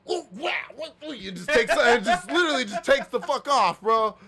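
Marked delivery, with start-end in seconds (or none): 0.1-0.9 mock surprise. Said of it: "he's like".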